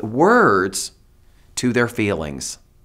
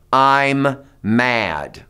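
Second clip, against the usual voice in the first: I mean it voice; 3 dB louder than usual. Shown as a demonstration. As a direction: say "I'm mad." firm and a little louder, meaning it. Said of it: "use your I mean it voice".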